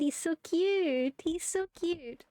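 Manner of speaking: slow, doting coo. Real, not acted. Gushing over the cute character, slow and doting.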